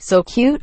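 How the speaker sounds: SO CUTE said normally, rising. Shown as a demonstration. Explaining what is heard from writing, normal SO CUTE. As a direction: lift CUTE as one syllable. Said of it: "if you write".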